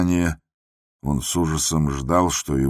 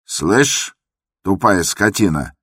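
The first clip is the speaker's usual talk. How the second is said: higher, a bit louder insult; shout; 4 semitones higher, 4 dB louder, slower than usual. Acted. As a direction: yell the insult at the door. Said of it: "крикнул Иван Дмитрич". (крик с оскорблением)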